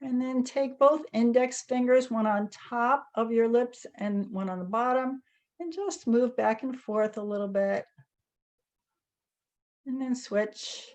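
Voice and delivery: calm, unhurried guiding with long pauses; guided meditation. Real, not acted. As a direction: gently lead a group through each movement, leaving space between phrases. Leads guided tapping meditation.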